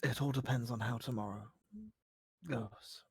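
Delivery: low, hushed and hesitant; vulnerable game character. Acted. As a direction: confide softly with long pauses.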